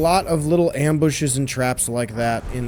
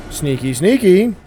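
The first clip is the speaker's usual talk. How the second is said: sneaky; 5 semitones higher, 4 dB louder than usual. Pretend. Creeping up on an enemy.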